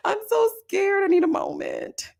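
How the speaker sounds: rattled-off panic rising to a high tearful squeal; hammed-up overwhelmed bride, climbing in pitch; imitating a meltdown. Retelling Tiffany on the couch, mock meltdown. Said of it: "she is having a meltdown".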